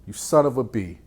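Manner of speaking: lightly teasing son of a B; mild jab. Shown as a demonstration. Coach showing the joking take of the same words. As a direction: toss it off casually. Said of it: "'Cause you could say".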